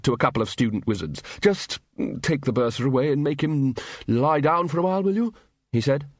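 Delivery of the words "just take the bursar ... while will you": higher-pitched wizard giving orders; hearty Ridcully. A narrator's reading. Wizard tells students to remove the bursar, hearty. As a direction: lift into a brisk request at the end.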